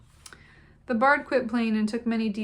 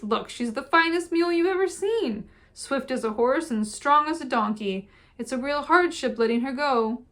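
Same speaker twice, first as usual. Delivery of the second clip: put-on exclaiming old farmer; 5 semitones higher, 5 dB louder than usual. A narrator's reading. Old Murphy exclaiming to the travellers, high and loud. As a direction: boom it out like a proud old horse trader. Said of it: "exclaimed Mister Murphy".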